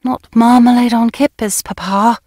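quick, rushed interruption; hasty. Acted. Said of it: "I said hastily".

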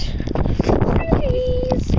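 high sing-song. Acted. Excited food announcement.

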